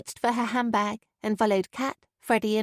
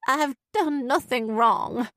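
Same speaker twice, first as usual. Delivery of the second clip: wavering; 4 semitones higher, slower than usual. Acted. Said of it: "her voice wavering".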